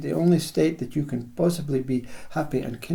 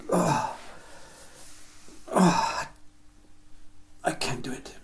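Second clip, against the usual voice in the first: strained, breathless whisper of a worn-out body; exhausted body giving up; 7 dB quieter, slower than usual. Acted. The tired body begging the worker to stop, in a strained whisper. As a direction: let the words sag out as if you're spent.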